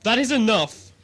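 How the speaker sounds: loud, sharp order to stop the argument; angry command. Acted. Ambassador silencing the quarrel between keeper and commissioner, with a loud angry order. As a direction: cut them both off, furious.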